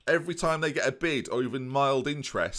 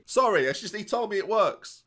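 high, raised excuse; shouted apology; 9 semitones higher, 4 dB louder than usual. Acted. Player explaining himself to the boss, shouting high. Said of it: "Why are you shouting?".

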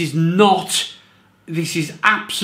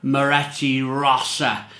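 put-on slow, lightly done Italian accent on Moretti Rossa; a mild imitation of an Italian accent; slower than usual. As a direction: roll it out like a smart Italian man at the airport bar, slowly. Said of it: "in his great Italian accent".

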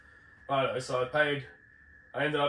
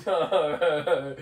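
exasperated no; 4 semitones higher, 10 dB louder than usual. Retold or imitated. Flights cancelled, laughing disbelief.

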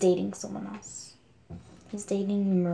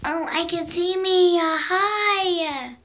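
surprised delight; 9 semitones higher, 6 dB louder, slower than usual. Real, not acted. Spots herself on camera.

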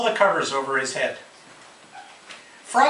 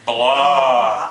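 grumpy Toad; 3 semitones lower, 5 dB louder than usual. A narrator's reading. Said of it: "said a voice from inside".

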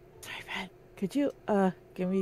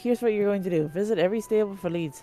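put-on brisk old-timey newsroom voice; 1940s reporter voice. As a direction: play a fast-talking 1940s newsman. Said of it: "Give him the nineteen forties reporter voice".

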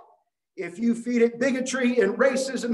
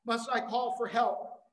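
crying out; 4 semitones higher than usual. Retold or imitated. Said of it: "who cried out to the Lord".

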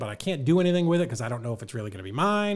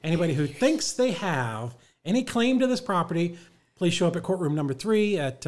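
higher, proclaiming public-notice voice; mock town crier; 6 semitones higher, 4 dB louder than usual. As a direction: announce it like a court proclamation.

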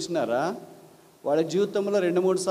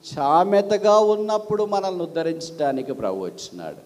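rising, louder preacher's proclamation; preaching; 3 dB louder than usual. Acted. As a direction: proclaim it to the congregation. Opening sermon proclamation. (ఉచ్చ స్వరంలో ప్రసంగం)

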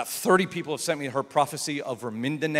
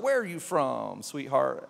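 mild Texas drawl; 3 dB quieter, slower than usual. Retold or imitated. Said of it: "She's from Texas".

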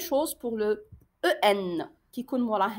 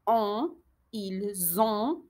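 very slow, stretched sounds; slow dictation; 2 semitones lower, much slower than usual. Shown as a demonstration. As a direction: drag out each syllable. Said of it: "O N لي ننطقو on". (très lentement, sons étirés)

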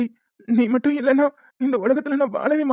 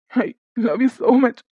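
every word of "I love you so much" stretched very slowly; slow drawn-out; much slower than usual. Acted. Husband begs wife, words drawn out very slowly. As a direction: linger on each word, drawn out.

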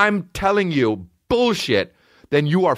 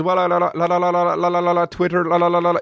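garbled phone voice; 3 semitones higher than usual. Retold or imitated. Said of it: "He says".

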